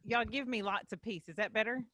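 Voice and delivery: asking quietly if it's better now; too quiet. Real, not acted. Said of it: "I've got to talk like this".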